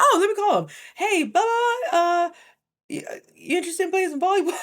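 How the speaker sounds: high, loud, bubbly voice; mimicking the manager. The manager calls the director over, high and loud. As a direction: play the eager manager on the phone.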